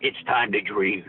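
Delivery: slow demonic tagline. Pretend. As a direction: drag it out like a demon. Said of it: "if you're doing a real demonic voice".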